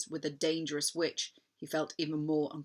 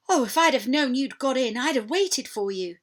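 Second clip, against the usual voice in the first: excited; 6 semitones higher, 8 dB louder than usual. A narrator's reading. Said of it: "too happy and excited".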